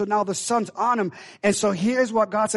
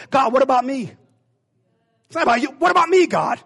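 jumps high on what about me; whiny complaint; 5 semitones higher, 5 dB louder than usual. Acted. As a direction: whine like a sulking child. Jonah whining to God.

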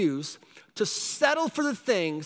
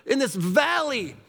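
higher and louder, amazed; amazed exclamation; 7 semitones higher, 4 dB louder than usual. Retold or imitated. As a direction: marvel out loud at the surprise. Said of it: "And you're like".

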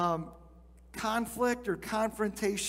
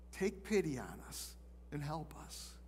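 desperate plea; 4 semitones lower, 10 dB quieter than usual. Retold or imitated. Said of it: "you hear this desperate plea".

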